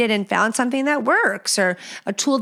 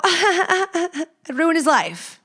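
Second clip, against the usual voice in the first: laughing threat; 8 semitones higher, much slower than usual. Acted. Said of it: "If I was that check-in girl now".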